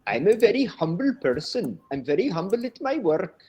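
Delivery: earnest mock Indian accent; serious Indian student. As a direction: mimic a solemn humble student. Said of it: "they're most serious".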